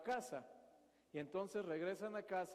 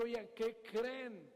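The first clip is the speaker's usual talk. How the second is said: Herod; 2 semitones higher, much slower than usual. Retold or imitated. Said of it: "estamos recreando solamente un poco la escena".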